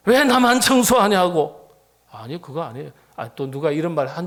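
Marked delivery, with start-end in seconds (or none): 0.1-1.7 louder, higher, slow grumble; a mock-grumbling churchgoer; mock complaint. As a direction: whine it like a put-upon volunteer.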